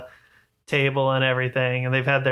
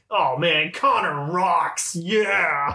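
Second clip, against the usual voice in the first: forced enthusiasm; 3 semitones higher, much slower than usual. Retold or imitated. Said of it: "hating that he has to say it".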